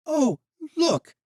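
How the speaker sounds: high, loud taunt; mock her with hate; a hateful boy jeering at the newcomer; sneering. Jan sneering at Valeria.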